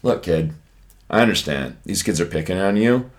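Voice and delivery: low, hushed pep talk; quiet, low confidential urging; imitated whispering. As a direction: take the kid aside, low and soft. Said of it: "I was just, like, whispering".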